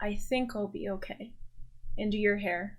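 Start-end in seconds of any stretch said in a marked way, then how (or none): 0.0-1.3 mumbled. Acted. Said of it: "he mumbles".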